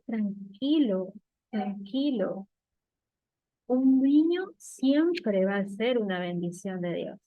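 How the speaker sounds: slow, reassuring retold words; gently calm him down, drawing words out; tranquilizador. Retells calming the man. (tranquilizador, pausado)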